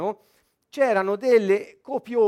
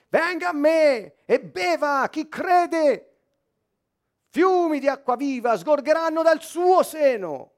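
high, sustained proclamation to a crowd; urlo imitato; 8 semitones higher, 4 dB louder, slower than usual. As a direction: cry it out slowly as a public summons. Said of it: "si alza e comincia a urlare". (proclamazione gridata, acuta e sostenuta)

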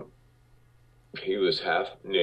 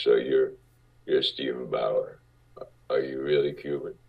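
much lower, gruff producer voice; Marty Bregman's deep voice; 4 semitones lower than usual. Retold or imitated. Producer sizing up a young actor, lower deep voice. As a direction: drop low and heavy like a big-shot producer. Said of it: "he had a deep voice like this".

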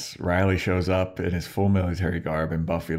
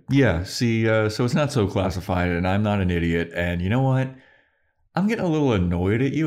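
higher and quicker, getting snippy; annoyed; 3 semitones higher than usual. Retold or imitated. Buffy snapping at Riley, higher, quicker and annoyed. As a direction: bite back with rising irritation.

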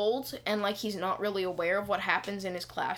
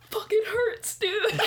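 stage whisper; 11 semitones higher, slower than usual. Retold or imitated. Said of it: "whispers in the loudest whisper I've ever heard".

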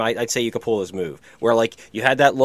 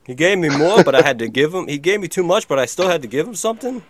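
higher-pitched puzzled questioning; mock confusion, pitched up; confused cashier; 4 semitones higher than usual. Voices the confused young cashier.

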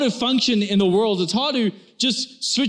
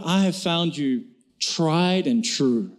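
tender husband; 4 semitones lower, slower than usual. Retold or imitated. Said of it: "lovingly and says".

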